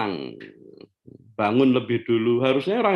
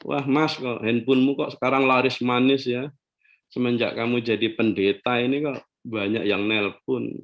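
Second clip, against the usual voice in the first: softer, light teasing question to husband; gentle teasing wife; 4 semitones lower, 3 dB quieter than usual. Shown as a demonstration. Wife gently teasing her pastor husband about calls, softer. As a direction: ask him lightly, no scolding. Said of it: "Pelan-pelan aja".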